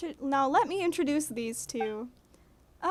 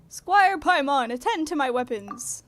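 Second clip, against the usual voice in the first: pompous knight; 7 dB louder than usual. Acted. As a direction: command like a self-important knight. Knight gives a pompous order.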